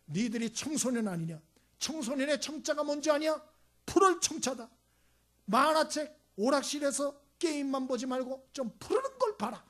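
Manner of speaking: a teacher scolding kindly; teacher's lecture. Retold or imitated. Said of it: "선생님이 그랬대요".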